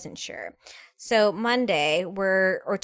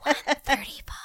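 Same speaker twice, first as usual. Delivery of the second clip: high put-on announcer read; 6 semitones higher than usual. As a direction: call out the weight like a ring announcer. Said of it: "he would say".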